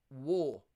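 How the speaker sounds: WAR with the R dropped, Cockney-style; soft R. Shown as a demonstration. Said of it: "The R is what I'm saying about".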